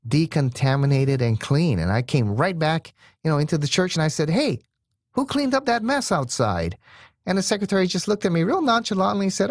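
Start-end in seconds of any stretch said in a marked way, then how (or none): 4.3-6.8 higher, astonished question; surprised call. Retold or imitated. Pastor asking staff who cleaned up, surprised. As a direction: call out in disbelief.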